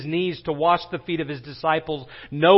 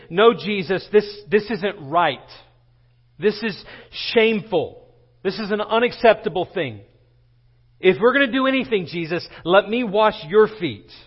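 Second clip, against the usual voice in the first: acted appalled protest, raised in pitch; imitating an appalled follower, emphatic and pitched up; 4 semitones higher, 3 dB louder than usual. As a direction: object as a shocked disciple would. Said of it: "He's appalled".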